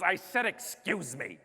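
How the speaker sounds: retold testy retort; attendant's indignant tone. Flight attendant answering complaining passenger, mimicked indignant tone. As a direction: imitate her insisting she already said it. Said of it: "in that exact tone".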